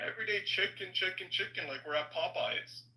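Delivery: mock-exasperated complaint in a put-on voice. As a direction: feign weary disbelief. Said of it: "I was putting on".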